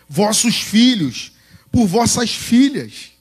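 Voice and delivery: high, slow proclamation with drawn-out words; rally the people to battle, phrase by phrase; impassioned pulpit exhortation; rousing preaching. Acted.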